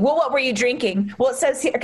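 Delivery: mildly accusatory mock questioning; victim-blaming interrogation. Detective questioning the victim on the phone, accusingly. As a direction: imitate an officer casting blame. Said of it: "immediately starts victim blaming".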